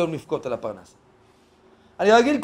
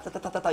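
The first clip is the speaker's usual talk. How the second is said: imitated gunfire; 8 dB quieter, faster than usual. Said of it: "יורים אותך".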